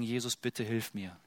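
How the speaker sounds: leise, kaum gewagte Bitte; zaghaft. Retold or imitated. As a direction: bring es kaum über die Lippen. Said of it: "der sich nicht mal traut". (der Verzagte wagt die Bitte kaum, leise gesprochen)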